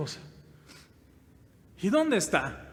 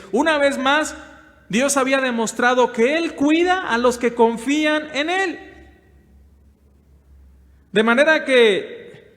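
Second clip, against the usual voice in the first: raised, ringing pulpit voice, pushing each phrase; full-force preaching; 6 semitones higher, 6 dB louder than usual. Acted. Pastor preaching to the brothers, loud and rising. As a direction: preach it out to the whole congregation.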